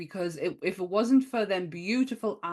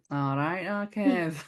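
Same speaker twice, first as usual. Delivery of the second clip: put-on Manchester accent; slower than usual. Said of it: "the Manchester one".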